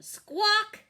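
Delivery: high, loud squawk; chicken squawk. A narrator's reading. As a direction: squawk like a startled hen. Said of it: "said Chicken".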